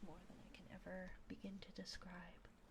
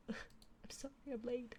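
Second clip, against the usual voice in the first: higher, drawn-out mock apology; playful re-enacted apology, pitched up; acted apology; 5 semitones higher, 3 dB louder, slower than usual. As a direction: act out a slow apology to a partner. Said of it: "was to my partner going".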